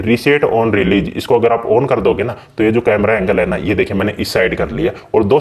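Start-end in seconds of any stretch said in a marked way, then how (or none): 0.0-1.1 slow label read. Real, not acted. Reading out a setting name.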